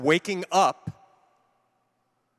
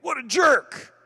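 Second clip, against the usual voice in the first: higher, louder annoyed snap; angry driver muttering insult, louder; retold road rage; 6 semitones higher, 6 dB louder, slower than usual. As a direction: snap at the driver who cut in. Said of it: "I think".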